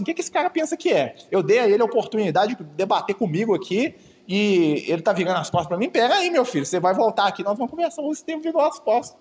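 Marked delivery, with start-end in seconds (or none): 0.0-8.0 high, offended and huffy; a vain scholar fuming at a snub; indignant inner voice. Retold or imitated. Paulo fuming after Estevão turns his back. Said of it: "Tipo assim".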